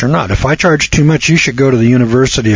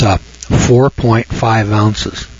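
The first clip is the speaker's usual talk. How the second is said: slow dictation; much slower than usual. Shown as a demonstration. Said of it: "Write this down".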